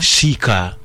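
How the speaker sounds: Shika said as SHI-ka with a clear sh, not s; sh sound. Shown as a demonstration. Host isolates the syllable to check the sound, careful. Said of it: "but it's pronounced sh".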